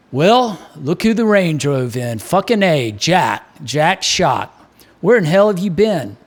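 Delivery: lightly voiced Baltimore barman; hearty bartender, a hint of Baltimore; bartender Mick. Mick greets Jack at the bar.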